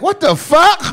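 high, loud mock Asian dealer outrage; comic Asian dealer indignation; affronted Asian dealer. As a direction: object in a squawked Asian dealer accent. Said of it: "you make us sound like that".

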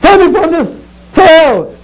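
God's command. Acted. But the Lord told me.

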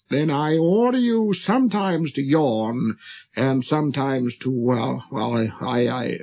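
pompous order breaking into flustered stammer; spluttering, vexed king. Acted. King losing his thread before the prince, spluttering. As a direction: start commanding, then fumble and fade. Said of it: "he spluttered a little and seemed vexed".

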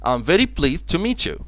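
very slow and clear teaching read; slow model sentence. Shown as a demonstration. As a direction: spell it out slowly for learners. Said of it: "الكلمة اللي بعد كده pleased".

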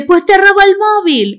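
high Andalusian bully voice; Andalusian accent. Retold or imitated. TikTok bully stealing Eleven's phone, Andalusian accent. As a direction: taunt her in a Sevillian accent. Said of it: "ellas sí que son andaluzas, lo estoy haciendo".

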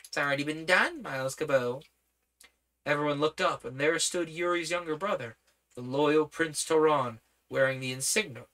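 lightly voiced young prince; a hint of an eager boy; boyish voice. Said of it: "boyish voice".

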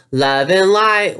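high, slow, sing-song guru voice; airy, preachy spiritual parody; mocking spiritual guru.

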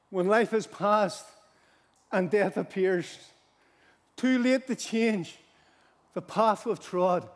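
slow, measured verse reading; solemn hymn recitation. Acted. Preacher quotes a hymn to the congregation, slow and solemn. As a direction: recite it line by line, drawing out each phrase.

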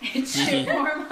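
laughing. Real, not acted. Friends laughing at warm drink.

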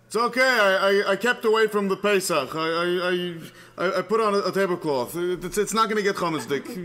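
loud, stammering, defensive excuses; screaming back. Acted. Husband caught making lunch calls back, defensive yell. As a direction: call back loudly, tripping over the excuse. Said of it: "And he screams back".

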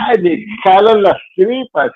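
high strained cry, slowed, as if the gut is yelling; gut cry of anguish. Retold or imitated. Man describing anxiety acting out his gut's high anguished cry. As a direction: cry out like the body is screaming at you. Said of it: "mi cuerpo me lo grita".

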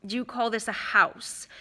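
lightly sneering question; understated snobbish sneer. Acted. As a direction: look down on the place with disdain. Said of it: "sneering as he looked around".

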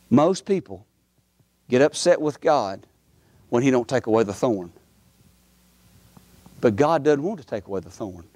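low, measured preacher's testimony; reflective preaching. Real, not acted. Preacher reflecting to congregation on past grace, low and solemn. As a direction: drop low and let each phrase sit.

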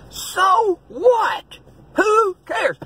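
preacher's fed-up yell; shouted scolding. Real, not acted. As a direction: fire it out at the whiners. Preacher scolding self-pity.

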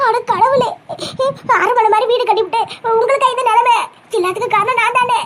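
tearful self-blame; weepy, guilt-stricken wail; crying. Acted. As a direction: lament through sobs, blaming yourself. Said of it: "அழுவாதம்மா".

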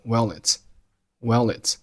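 "well it" joined with no gap; linked words. Shown as a demonstration. Teacher demonstrating linking for learners, linked "well it". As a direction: slide the l of "well" into "it". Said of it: "Well和it连读成了".

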